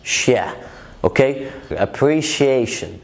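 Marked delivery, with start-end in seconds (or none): 1.7-2.9 "appreciation" said slowly with "shee-ay" in it; slow teaching "appreciation", c said as sh; shia sound demonstrated. Shown as a demonstration. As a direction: stretch "appreciation" to show its sh sound. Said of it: "نطق بيبقى عامل زي شيا".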